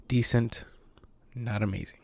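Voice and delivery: congested, heavy breathing voice; stuffy allergy voice, breathing heavily; sounding sick. Real, not acted. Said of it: "sorry that I sound, like, a little sick".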